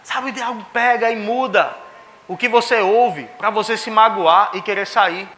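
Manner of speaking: slow, drawn-out preacher's warning building in force; preaching exhortation. Real, not acted. Preacher warns congregation not to leave, earnest exhortation. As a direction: urge the congregation to stand firm.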